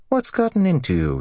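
very high-pitched teasing reproach; chiding wife. Acted. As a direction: scold him fondly, pitch way up. Wife chides her silent husband.

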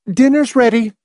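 high-pitched woman calling out; sharp call. A narrator's reading. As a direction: call everyone to dinner sharply. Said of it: "Marcia called sharply from the living room".

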